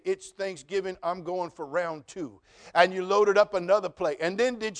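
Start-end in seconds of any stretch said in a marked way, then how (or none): 0.0-2.4 mock glutton. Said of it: "Or did you say".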